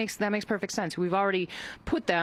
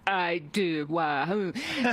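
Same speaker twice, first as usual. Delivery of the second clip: flustered; much slower than usual. Retold or imitated. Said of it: "the reaction that you just gave".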